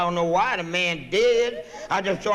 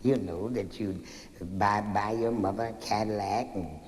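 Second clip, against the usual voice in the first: teacher; 7 semitones lower, 7 dB quieter than usual. Acted. Teacher praising, growing soft.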